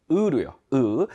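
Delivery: 으 as a short weak schwa; weakened vowel. Shown as a demonstration. Teacher showing the weakened vowel, 으 said weakly. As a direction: reduce the vowel to a plain 으. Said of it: "으로 약화시킵니다".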